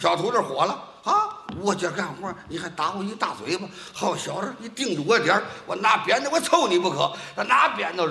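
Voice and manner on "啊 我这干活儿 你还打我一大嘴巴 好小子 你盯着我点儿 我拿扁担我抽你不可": angry apprentice. Acted. Apprentice slapped, threatens back.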